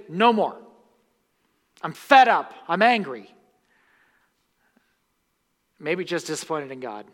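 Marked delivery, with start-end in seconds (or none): 0.1-3.3 loud, fed-up outburst, higher and louder; voicing an angry churchgoer. Preacher voicing a hurt churchgoer, loud and fed up. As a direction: spit it out like someone done with God. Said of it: "enough for you to say".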